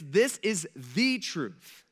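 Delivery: slow, weighty "the truth" with "the" leaned on; stress on THE. Shown as a demonstration. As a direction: press hard on "the" in "this is the truth". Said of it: "It doesn't say a word".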